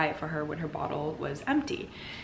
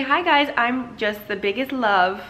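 lightly voiced cutesy dog, a bit high and loud; voicing the dog; 4 semitones higher, 7 dB louder, slower than usual. Giving Cleo a voice to greet viewers, light cutesy pup. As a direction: speak for the dog like a sweet pup.

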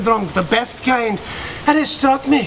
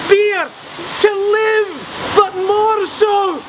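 fervent preaching; 4 semitones higher than usual. Acted. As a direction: preach each letter as holy revelation. Ecstatic preaching of beer's meaning.

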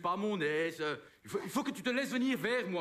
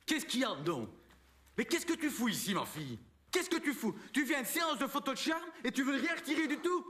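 mock outburst; 4 semitones higher than usual. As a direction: scold the model like a vexed photographer. Photographe s'emporte contre le modèle. (engueulade de photographe vexé, un peu plus haut)

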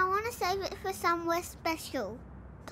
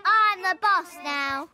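smug boss; 5 dB louder, slower than usual. Pretend. Kid takes over as boss.

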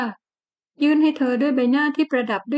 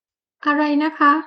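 surprised wife; 4 semitones higher, much slower than usual. Acted.

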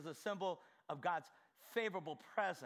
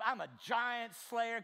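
bold claim; 3 semitones higher, 4 dB louder than usual. Retold or imitated. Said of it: "do you see yourself".

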